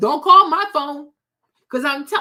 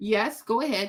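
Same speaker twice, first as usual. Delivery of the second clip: mock composed, very stoic, unemotional tone; 5 semitones lower, 7 dB quieter than usual. Retelling own reply to a woman asking for help: stoic reply. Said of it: "very stoic".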